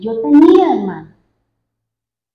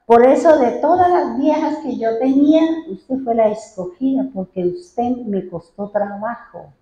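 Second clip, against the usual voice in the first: husband quote; 3 semitones higher than usual. Retold or imitated. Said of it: "Decía".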